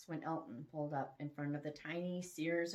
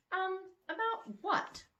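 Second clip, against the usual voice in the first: caught off guard; 11 semitones higher, slower than usual. Acted.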